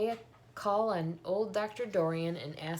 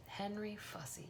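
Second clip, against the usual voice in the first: soft, slow whispered mumble; mumbled whisper; 3 semitones higher, 9 dB quieter, slower than usual. A narrator's reading. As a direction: mutter the name lost in thought. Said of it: "he mumbled".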